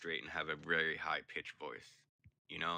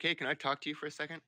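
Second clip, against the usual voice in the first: put-on girl's voice; 8 semitones higher, 4 dB louder, faster than usual. Girl voiced in story.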